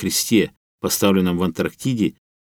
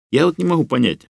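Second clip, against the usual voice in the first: indignant; 8 semitones higher than usual. Acted. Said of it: "возмущённо произнёс Лёха".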